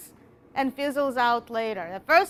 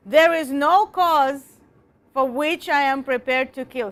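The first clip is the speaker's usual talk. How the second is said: forceful speech reading; 4 dB louder than usual. Shown as a demonstration. Teacher repeating the quote in a declaiming voice. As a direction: deliver the line like a rousing orator. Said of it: "I will repeat to you ... but I will".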